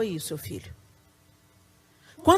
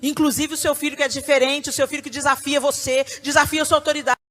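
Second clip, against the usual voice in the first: building, louder preaching; rising emphasis; 4 semitones higher, 4 dB louder than usual. Real, not acted. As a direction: drive it up with force. Preaching crescendo on defiant child. (pregação cada vez mais forte)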